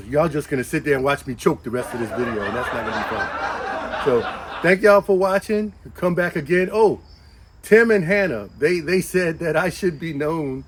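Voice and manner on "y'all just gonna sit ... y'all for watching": laughing. Real, not acted. Laughing at own choking fit.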